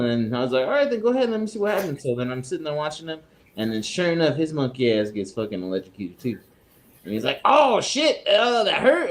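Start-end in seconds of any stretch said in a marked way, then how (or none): 0.7-2.0 higher, teasing challenge; lightly mocking go-ahead; retold dare. Daring coworkers to touch the table, teasing and higher. He dares them to try. 7.4-9.1 higher mock ouch; a touch of a hurt kid; retold yelp of pain. Coworker just shocked, mild higher pained voice.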